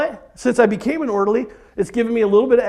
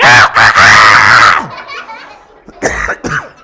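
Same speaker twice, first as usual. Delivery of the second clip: mock screaming; 13 semitones lower, 8 dB louder, much slower than usual. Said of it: "screaming like a little girl".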